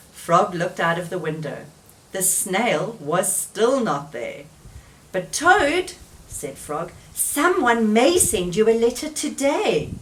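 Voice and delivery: lively read-aloud voice with clear character turns; story reading for children. A narrator's reading. Teacher reading Frog and Toad to children, lively storytelling. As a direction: tell it gently to little listeners.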